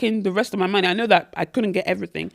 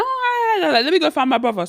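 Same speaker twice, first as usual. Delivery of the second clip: high bright oh, then rattled off fast; breezy rushed hellos on the way to the brother; quick excited greeting; 6 semitones higher than usual. Retold or imitated. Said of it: "I'm like".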